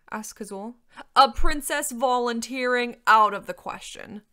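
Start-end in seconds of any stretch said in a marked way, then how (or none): 1.2-4.2 slow, very loud dragon disbelief; outraged dragon. A narrator's reading. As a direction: boom out a scandalised objection. Dragon objects scornfully.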